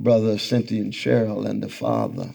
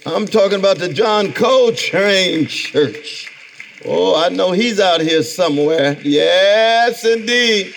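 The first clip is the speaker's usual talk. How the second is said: excited; 9 semitones higher, 4 dB louder than usual. Real, not acted. Greeting old friend from stage.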